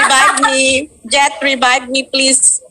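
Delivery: lightly imitated Filipino accent; attempted Filipino accent. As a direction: try the line with a Filipino accent. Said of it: "say it in that Filipino accent".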